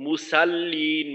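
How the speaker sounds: মুসাল্লিন with a light s and open "sa"; মুসাল্লিন slowly, s left thin; thin-s mispronunciation. Shown as a demonstration. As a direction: say মুসাল্লিন with plain seen in place of heavy sad. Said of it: "মুসাল্লিনও পড়ে অনেকে".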